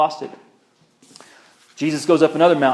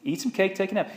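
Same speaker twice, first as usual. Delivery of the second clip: higher and softer, tender advice; gentle repeat; 5 semitones higher, 5 dB quieter, faster than usual. Shown as a demonstration. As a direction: coax him kindly to rest. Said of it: "It's in the translation".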